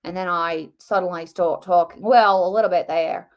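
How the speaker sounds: botched Aussie accent sliding into English; Australian accent turning British. Shown as a demonstration. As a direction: try Australian and drift towards British. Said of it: "then it suddenly becomes English when I try it".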